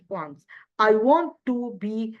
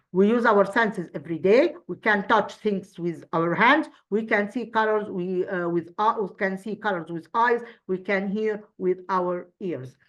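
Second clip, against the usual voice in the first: reading aloud. Shown as a demonstration. Teacher reads an exam paragraph aloud to pupils, a clear read-aloud. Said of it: "to read this paragraph as a whole".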